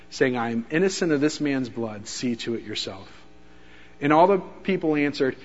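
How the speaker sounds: measured, solemn Bible reading; scripture reading. Acted. Preacher reading the Gospel passion account to the church, solemn. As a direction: read the passage gravely to the congregation. Reads scripture harmony aloud.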